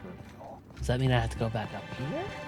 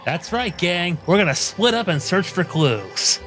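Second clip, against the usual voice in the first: mystery gang leader; 7 semitones higher, 8 dB louder, slower than usual. Pretend.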